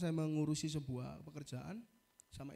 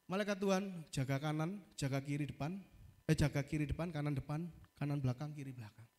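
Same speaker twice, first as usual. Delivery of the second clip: prayer; 4 semitones lower than usual. Retold or imitated. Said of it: "Saya setiap naik pesawat".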